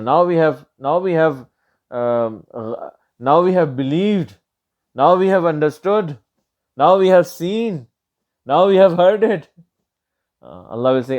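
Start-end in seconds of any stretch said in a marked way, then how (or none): 0.0-9.5 desperate, building from pleading to near-shout; building plea. Acted. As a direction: climb step by step in desperate pleading. People of Hell's building plea.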